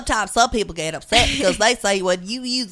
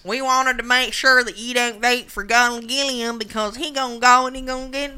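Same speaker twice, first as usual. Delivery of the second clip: put-on Southern accent; 3 semitones higher than usual. Mocking a racist robocall against a candidate, hammy Southern accent. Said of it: "I'm sorry I'm using a Southern accent".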